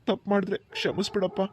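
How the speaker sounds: entrust a sister through tears; tearful brother handing over his sister; tearful pleading. Acted. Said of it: "ಕಣ್ಣೀರ್ ಹಾಕ್ಬೇಡಿ ಭವ".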